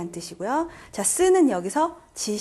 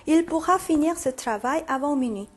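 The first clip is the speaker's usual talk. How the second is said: measured French sentence read-aloud; reading example sentence; 4 semitones higher, much slower than usual. Shown as a demonstration. Teacher reading a French sentence for students, measured model reading. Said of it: "문장 읽어볼게요".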